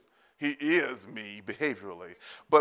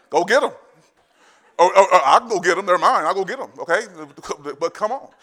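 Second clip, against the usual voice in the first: excited, laughing; 5 semitones higher, 10 dB louder than usual. Real, not acted. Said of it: "laughing, building excitement".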